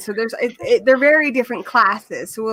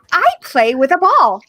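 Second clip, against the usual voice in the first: put-on talking to little kids; 6 semitones higher, 6 dB louder than usual. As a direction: spell it out like for a toddler. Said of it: "it's a lot like".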